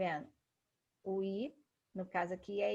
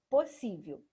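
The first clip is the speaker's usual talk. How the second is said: "Possível" with the middle syllable SÍ hit louder; stress on SI; 5 dB louder than usual. Shown as a demonstration. Teacher asking for the strongest syllable, "Possível" stressed on SÍ. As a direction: punch the "sí" in "Possível". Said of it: "Qual é a sílaba mais forte?".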